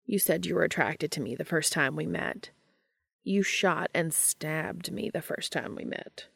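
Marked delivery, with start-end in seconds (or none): 3.2-6.3 slow, softer indignant protest; slow down and object, a little softer. Acted. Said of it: "Cass protested".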